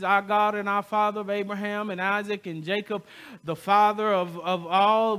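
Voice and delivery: long-winded prayer. Shown as a demonstration. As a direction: orate it like a showy formal prayer. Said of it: "long, drawn-out soliloquies".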